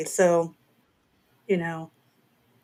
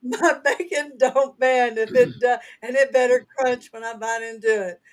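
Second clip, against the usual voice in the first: put-on full-on Southern accent; 3 semitones higher than usual. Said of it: "Y'all get the full-on Southern accent".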